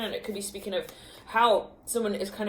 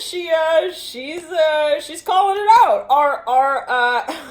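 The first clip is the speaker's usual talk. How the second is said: high, loud excited laughter; 8 semitones higher, 9 dB louder, slower than usual. Real, not acted. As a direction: gush it out. Excited by the reading.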